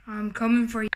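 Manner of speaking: low, menacing monster. Acted. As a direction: rumble it like a big beast. Giant threatens and laughs.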